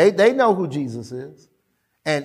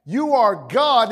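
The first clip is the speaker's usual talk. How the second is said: lightly voiced demon, high and insistent; high, stretched phrases, a touch of drama; demon addressing Jesus; 3 semitones higher than usual. Demon confronts Jesus in sermon.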